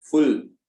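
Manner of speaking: फुल said loud and firm; stressed syllable. Shown as a demonstration. Teacher showing another stressed syllable, फुल pushed out strongly. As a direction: put full weight on फुल. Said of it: "ये भी आपका stressed है".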